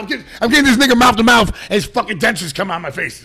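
high, loud, rushed storytelling; retold frantic yelling. Retelling frantic mouth-to-mouth scene.

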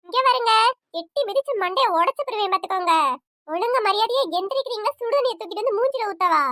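wife threatening sleepy husband, angry; angry threat. Acted. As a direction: threaten him to get up now.

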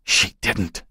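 small, wounded denial; mildly tearful refusal; crying out. A narrator's reading. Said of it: "Joan cried".

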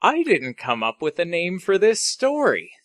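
announced like the name of a story; as if reading a title. Real, not acted. Storyteller admitting there's no name, as if reading it. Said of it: "you said it like you were reading it".

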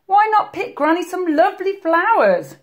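high, coaxing wolf; scheming wolf. A narrator's reading. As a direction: suggest it with false sweetness. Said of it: "thought up a plan, a horrible, clever plan".

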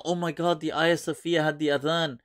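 mocking imitation of overwrought believers; mock gushing, lightly overdone; mock emotional. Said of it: "they're acting all emotional".

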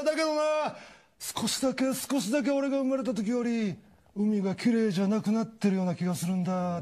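tug at their hearts gently; cartoon turtle asking kids to protect the sea; sincere turtle. Turtle's earnest speech.

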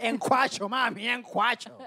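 hammed-up lover's pet talk; imitating the lover. Cohost mimics the lover in bed, playful imitation. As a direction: play the smooth-talking street lover, drawn out. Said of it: "Así le decía el loco".

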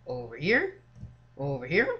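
Over here? stretched very slow, rising at the end; "Over here?" drawn out very slowly with a lifting end; drawn-out questioning. Shown as a demonstration. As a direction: sing it out slowly, teasing. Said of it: "Over here? repeated".

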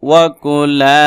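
ওয়া কুলা with the final লা stretched; madd, one alif. Shown as a demonstration. Teacher showing the madd letter, stretched final vowel. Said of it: "মদের হরফ এক আলিফ টান".

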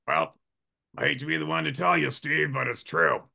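a hint of a deadpan doctor; imitating the calm doctor. The surgeon confirming it to Steve, lightly voiced and deadpan. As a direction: break the news calmly. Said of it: "And then Tut goes".

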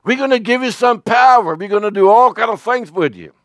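a playful angel hyping up the job; eager angel voice. Retold or imitated. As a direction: sell the big promise with gusto. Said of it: "And you says".

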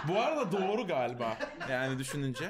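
giggling while talking; chuckling through the words; laughing. Real, not acted. Laughs at joke.

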